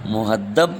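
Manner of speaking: مہذب as "mu-had-DAB", d in place of z; pronunciation option. Shown as a demonstration. Teacher reading vowel-mark choices, "muhaddab" for مہذب. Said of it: "مہذب کے درست اعراب کیا ہے؟".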